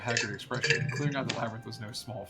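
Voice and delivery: measured in-character dialogue read; lightly voiced scholar. Questioning the adventurer about the tower, in a lightly acted scholar voice. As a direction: read it aloud as a learned game character. Reads game dialogue in role.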